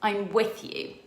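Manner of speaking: very high, loud, gushing agreement; imitating Lorati's thrilled sign-up; ecstatic yes. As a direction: throw yourself in completely. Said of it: "Lorati was like".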